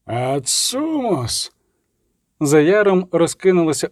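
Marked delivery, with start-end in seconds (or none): 0.1-1.5 slow, soft cry from far off; a war call carried through fog from afar; distant cry. A narrator's reading. Pursuers call out from a distant ridge, a drawn-out far cry.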